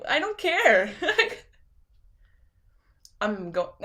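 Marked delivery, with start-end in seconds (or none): 0.1-1.5 laughing I don't care; laughing dismissal. Retold or imitated. Streamer laughing off identity critics. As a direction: brush it off with a laugh. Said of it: "So I'm like".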